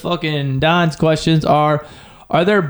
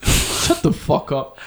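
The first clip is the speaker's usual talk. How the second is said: breathless disbelief; 3 semitones lower, 3 dB quieter, much slower than usual. Real, not acted.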